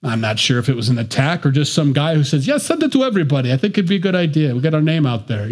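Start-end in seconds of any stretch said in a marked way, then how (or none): 2.5-5.5 a hint of a blended Italian-Russian accent, quick; lightly mock a muddled Italian-Russian accent, fast; hammed-up half Italian, half Russian accent; mixed foreign accent. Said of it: "I don't know what accent I used there".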